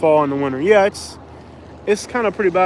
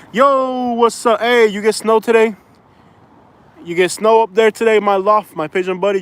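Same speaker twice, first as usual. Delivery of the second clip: higher, louder, lively hey; excited greeting; 5 semitones higher, 4 dB louder than usual. Real, not acted. Greeting a friend up north, excited and loud. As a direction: call out to a buddy with energy.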